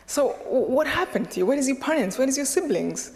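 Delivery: retold urgent questioning. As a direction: imitate someone anxiously pressing for answers. Retold man fires questions at her.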